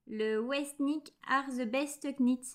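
English slogan in a French accent, slowly; self-mocked English accent. Real, not acted. Vlogger reading her brooch's slogan, self-mocked English accent. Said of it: "avec un super accent anglais".

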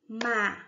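"Ma-ca-ca" in three isolated beats; separated syllables. Shown as a demonstration. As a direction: say "Ma-ca-ca" one syllable at a time, pausing after each. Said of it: "Leia e separe em sílabas, falando". ("Ma-ca-ca" separado em sílabas, com pausas longas)

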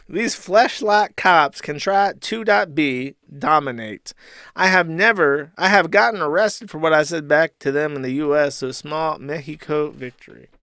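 lightly mocked boastful rant; Ethan Ralph. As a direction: play a mildly hammed-up aggrieved customer. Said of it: "To which Ralph replies and says".

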